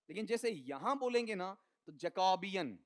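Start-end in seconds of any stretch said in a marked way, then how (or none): 1.9-2.8 जैकोबियन with a weakened first syllable; stress shifted forward. Shown as a demonstration. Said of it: "इसका उच्चारण ही हल्का सा कमजोर हो जाएगा".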